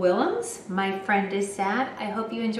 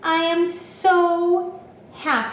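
happy; 6 semitones higher, slower than usual. A narrator's reading. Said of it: "now he just feels so happy".

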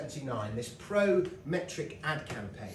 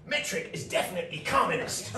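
quoted protester; 3 semitones higher than usual. Retold or imitated. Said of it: "said this chap".

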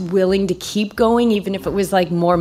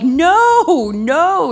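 playful refusal; 10 semitones higher, 5 dB louder than usual. Retold or imitated. Refusing cheering friends on climb.

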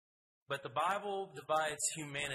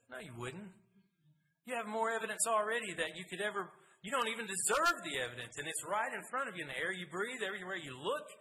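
fervent rebuke; 6 semitones higher than usual. Acted. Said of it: "the biblical response to that is".

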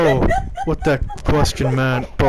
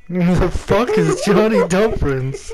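laughing; 6 semitones higher than usual. Real, not acted. Laughing at silly name.

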